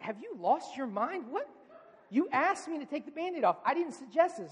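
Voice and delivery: mock-baffled, pitch climbing in protest; incredulous dad. Dad to son who fled the Band-Aid removal, incredulous. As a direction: protest like a bewildered parent. Dad's reaction to fleeing son.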